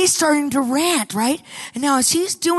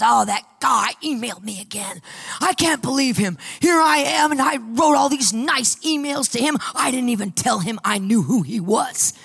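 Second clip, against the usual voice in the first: ranting. Retold or imitated. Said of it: "he would be ranting about this guy".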